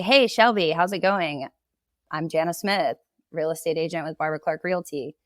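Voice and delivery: confident greeting, "Shelby" on a settled fall; leveled tone of voice. Shown as a demonstration. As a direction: assume you've got them, say it flat and sure. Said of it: "Just leveled tone of voice".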